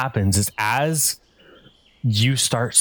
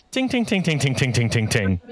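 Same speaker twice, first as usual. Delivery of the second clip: xylophone ting imitation. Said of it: "he goes".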